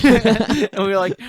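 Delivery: talking through real laughter; laughing as she tells it. Real, not acted. Teller laughing while recalling the swerve, real laughter. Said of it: "Andrew's kinda smiling".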